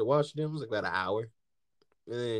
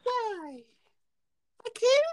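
high whiny mock sob, much higher; mock crying; much slower than usual. Retelling his frustration to his friend, mock crying. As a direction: whine it like a fake cry.

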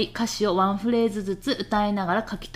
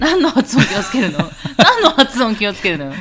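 laughing mock indignation; 3 semitones higher, 8 dB louder than usual. Real, not acted. Teased host fires back at co-host's advice, laughing indignation. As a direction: demand an answer while cracking up.

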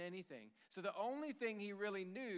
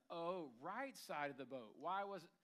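sarcastic. Acted. Peter answering advice on fishing, sarcastic. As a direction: feign interest with an audible eye roll. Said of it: "all the dripping sarcasm".

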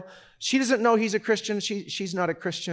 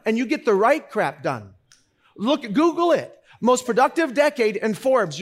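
excited preaching; 6 semitones higher, 6 dB louder than usual. Real, not acted. Excited preaching about productive seventies.

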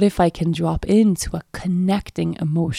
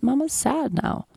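put-on gentle to child; 8 semitones higher, slower than usual. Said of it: "And I just said".

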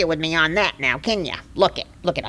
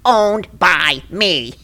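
gloating; 3 semitones higher, 3 dB louder, slower than usual. Acted. Gloating over opponent's bad luck.

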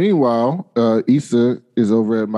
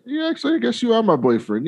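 much higher, sheepish admission; coy girlfriend; 10 semitones higher, faster than usual. Retold or imitated. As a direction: squeak it out, a bit embarrassed. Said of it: "And she's like".

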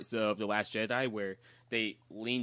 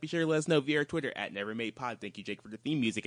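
rattled off without a breath; rushed outro read, one breath; all in one breath; 2 semitones higher, 4 dB louder than usual. Real, not acted. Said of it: "and I did this in one breath".

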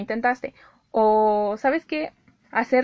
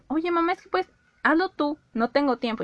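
pleading to mom; 6 semitones higher than usual. Retold or imitated. Asking mom to do the sewing.

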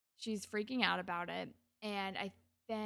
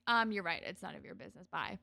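mildly defensive; 5 semitones lower, faster than usual. Retold or imitated. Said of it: "gets very defensive".

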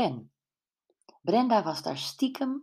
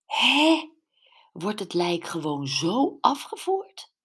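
sharp, much higher and louder startled Hè; disbelief; 4 semitones higher, 4 dB louder than usual. Acted. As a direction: gasp out the Hè in disbelief. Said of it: "vroeg Sophie vol ongeloof".

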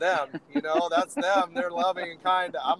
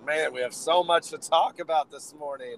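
raspy, worn-out throat; talking through a sore throat; hoarse voice. Real, not acted. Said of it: "got a little crumble crumble going on there".

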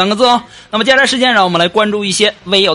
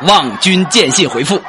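poem recitation; 2 semitones higher, slower than usual. Shown as a demonstration. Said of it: "你应该这么问".

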